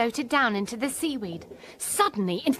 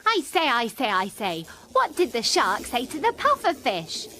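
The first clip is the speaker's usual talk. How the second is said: joke-telling jellyfish; 4 semitones higher than usual. Acted.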